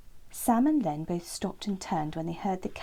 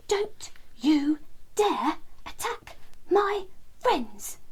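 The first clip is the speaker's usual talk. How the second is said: shouting wren; 8 semitones higher, much slower than usual. A narrator's reading. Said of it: "Terence was shouting at the cat".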